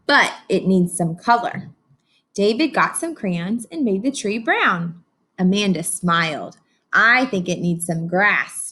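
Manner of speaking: lively read-aloud storytelling; story narration. A narrator's reading. Teacher reading to her class, animated storybook narration. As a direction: read it like a picture book to a class.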